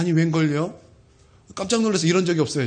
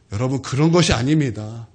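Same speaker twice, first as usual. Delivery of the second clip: ordinary delivery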